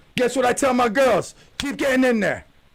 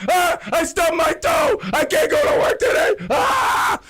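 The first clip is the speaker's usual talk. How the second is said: a mocking, exaggerated sob story; mock crybaby whine; 8 semitones higher than usual. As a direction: whimper it like a big baby faking pain. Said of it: "people crying that they stubbed their toe".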